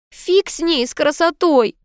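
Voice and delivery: high-pitched, cross retort; annoyed. A narrator's reading. Niece fed up with suffering for beauty, cross. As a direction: snap it back in a high voice. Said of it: "разозлилась Анита".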